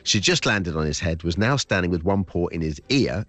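lively storybook reading voice; story narration. Acted. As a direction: read it like a bedtime adventure. Reads his story aloud.

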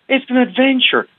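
It's an adventure, high and emphatic; pompous. Shown as a demonstration. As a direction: proclaim It's an adventure grandly. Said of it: "forgive me if I sound a bit pompous".

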